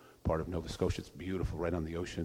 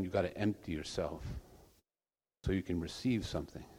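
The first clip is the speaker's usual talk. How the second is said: a lightly voiced gentle monk, calm and unhurried; a hint of a gentle old monk; very gently. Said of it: "very gently and says".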